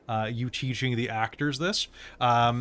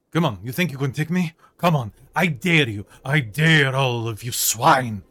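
taunting shout; 6 dB louder than usual. Acted. Fighter taunts attackers downstairs.

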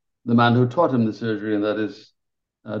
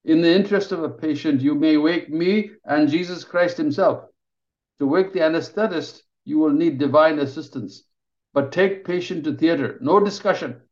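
higher, brisk orders; commanding surgeon; 5 semitones higher than usual. Acted. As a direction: rattle off his verdict with no room to argue. Ravi lays down the law.

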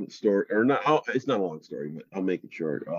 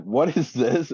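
mildly puzzled, higher-pitched question; retold bewilderment; 4 semitones higher, slower than usual. Partner finding a crystal in bed, mock bewilderment. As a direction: retell your puzzlement, voice lifted.

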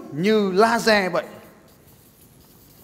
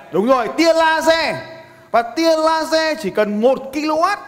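to someone hard of hearing; 10 semitones higher, 3 dB louder than usual. Real, not acted. Shouting answer to audience.

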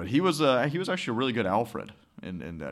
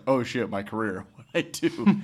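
whiny mock panic; 2 semitones higher, 4 dB louder than usual. Host mocks a YouTuber's fake apology video, mock-panicked whine. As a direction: play the YouTuber's panicked career worry, hammed-up. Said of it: "It's just like".

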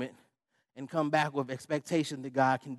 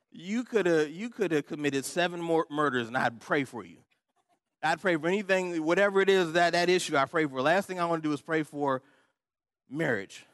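loud, raised, hammed-up objection; exasperated protest; 3 semitones higher, 4 dB louder than usual. Pastor balking at praying for friend's marriage, exasperated.

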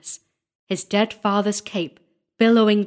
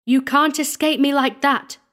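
raised, loud challenge; angry cry; 7 semitones higher, 5 dB louder than usual. A narrator's reading. Squire starts in pursuit of the sexton, crying out. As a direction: call it out high and hard after a fugitive. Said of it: "cried the squire".

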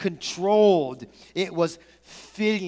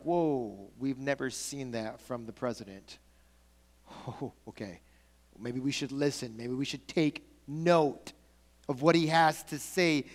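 lower, softer, taken-aback murmur; hushed awe; 5 semitones lower, 6 dB quieter than usual. Acted. Cabinet members leaning in after Lincoln gets angry, hushed and impressed. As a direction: voice a stunned room taking note.

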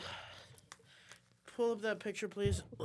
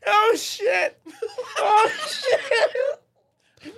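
stomach cramps; much slower than usual. Real, not acted. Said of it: "My stomach hurts".

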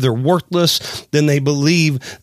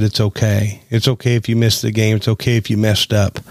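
reassuring Father; 4 semitones lower than usual. Retold or imitated. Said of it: "my heavenly Father came down and said".

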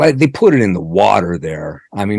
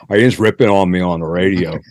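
quick, light Pittsburgh local talk; a hint of Pittsburgh accent, rattled off; 2 semitones lower, faster than usual. Shown as a demonstration. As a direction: rib him like a Pittsburgh local. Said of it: "as we would say in Pittsburgh".

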